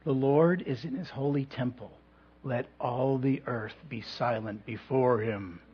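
lightly put-on British accent, a stern headmaster announcing; Mister Messer British accent. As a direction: imitate an English headmaster's British accent, solemn and hushing the room. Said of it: "he would announce in his British accent".

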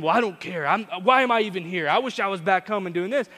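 loud mock sulking; sulky brother. Brother complaining during New York trip, mock sulk. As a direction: grumble like a fed-up teenage brother. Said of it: "here comes my brother coming in".

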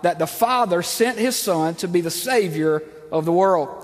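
slow, solemn scripture reading. Acted. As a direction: read each verse slowly and deliberately. Reads scripture slowly.

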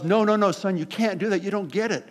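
lightly acted mother's objection; a hint of a mom heading off her kid; mom correcting son. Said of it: "And Mom goes".

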